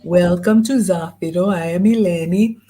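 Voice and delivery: put-on light echo of the guide's Greek accent, rising at ends. Echoing the Greek guide's welcome in her accent. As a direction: repeat her words with a touch of Greek accent. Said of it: "the beautiful accent".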